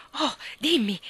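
bright, eager "tell me" said through a smile; smiling encouragement. A narrator's reading. Mary urges Marta to share her idea, smiling. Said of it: "la incoraggiò Mary sorridendo".

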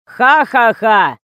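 loud, slow, spoken mock laughter; fake laugh. A narrator's reading. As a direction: spell out a sarcastic ha-ha-ha. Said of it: "сказал он". (нарочито сказанное ха-ха-ха)

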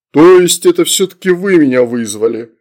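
loud, disbelieving question; incredulous. A narrator's reading. Demon questions little summoners, incredulous. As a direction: ask it loudly, unable to believe. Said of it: "Всё ещё не мог поверить".

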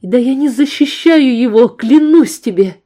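high loud pleading; desperate denial. Acted. Woman swearing to the gunman she isn't hiding him. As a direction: insist in panic.

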